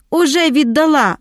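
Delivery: high, gloating exclamation without real laughter; gleeful triumph. A narrator's reading. Ada taunting Shuliak through the locked door, gleeful crowing. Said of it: "розреготалася".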